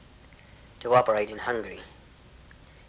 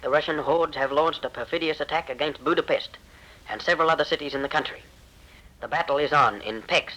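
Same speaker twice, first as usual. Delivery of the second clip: raised, urgent announcer reading; urgent radio appeal; 3 semitones higher than usual. Retold or imitated. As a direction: read it like a desperate broadcast. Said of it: "The broadcast says".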